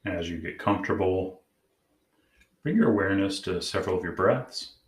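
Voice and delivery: calm, measured meditation guide; guided meditation. Acted. Host leading listeners to check in with their inner parts, guided meditation. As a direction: gently guide them inward, leaving long pauses.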